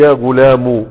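يا غلام ending in a short -u; damma on mim. Shown as a demonstration. Teacher showing the damma ending to students. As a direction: close غلام with a brief u. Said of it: "بالضم".

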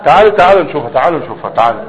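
calling out. Real, not acted. Teacher calling students to the board. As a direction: call them to come look.

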